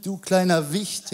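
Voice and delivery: slow, playful mock taunt. Goliath mocks little David before the fight, taunting. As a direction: jeer lightly as if at a puny opponent. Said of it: "der den verhöhnt hat".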